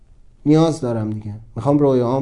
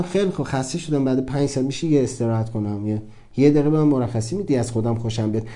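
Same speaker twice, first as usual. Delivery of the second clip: tired plea; 3 semitones lower, 4 dB quieter than usual. Retold or imitated. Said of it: "من گفتم".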